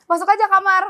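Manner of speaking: a hint of a mum calling a guest inside; friend's mother. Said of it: "kata nyokap lo".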